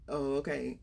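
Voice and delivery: mildly indifferent, low quiet reply; unbothered husband. Retold or imitated.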